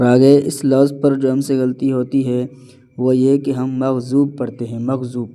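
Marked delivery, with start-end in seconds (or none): 3.7-5.3 "مغضوب" with a thin z in place of dad. Shown as a demonstration. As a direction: say "مغضوب" as magh-zoob. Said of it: "یہ ز نہیں". ("مغضوب" ض کی جگہ ز)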